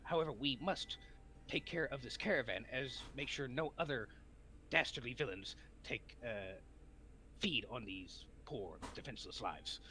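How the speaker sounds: a hint of noble anime hero; earnest determined anime hero. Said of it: "anime protagonist voice".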